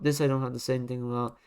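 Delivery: rattled off fast, dismissive; fast repeat. Shown as a demonstration. Rating a bad design, repeating the dismissal fast. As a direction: toss the same line off quickly. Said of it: "repeated line, first slower".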